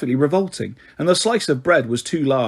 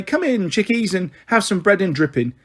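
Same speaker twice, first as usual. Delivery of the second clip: put-on a boy lightly copying his mother's cheery welcome, voice lifted; singsong imitation of mum's greeting, only a hint of her; mimicking his mum; 4 semitones higher than usual. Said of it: "She'll just say".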